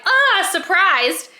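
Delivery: high, slow, startled "Ah"; startled gasp. Retold or imitated. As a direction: act out a jolt of surprise. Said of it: "she jerks back her head like".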